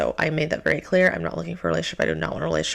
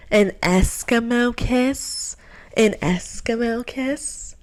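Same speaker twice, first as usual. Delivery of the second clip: slow, higher, disbelieving repeat; incredulous mock; 5 semitones higher, slower than usual. Mocking his Eskimo kiss request to the audience, incredulous. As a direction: drag it out in disbelief.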